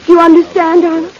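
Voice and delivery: high, loud cry of doom, drawn out; desperate dread. Acted. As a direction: build to an anguished, drawn-out cry. Doomed woman's climax.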